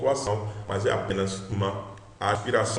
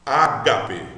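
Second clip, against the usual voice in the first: Ágape com o GA forte; stress on GA; 4 dB louder than usual. Shown as a demonstration. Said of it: "Veja que o Gá é a sílaba mais forte". (ênfase na sílaba Gá de Ágape)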